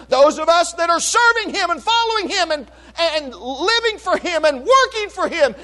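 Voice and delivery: full-force preaching. Real, not acted. Pastor exhorting his church about the saved, fervent preaching. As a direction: build the list like a revival sermon.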